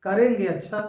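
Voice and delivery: "करेंगे" hit first, "अच्छा" tagged on; negative, refusing. Shown as a demonstration. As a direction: punch "करेंगे" as a doubtful brush-off. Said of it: "नकारात्मक".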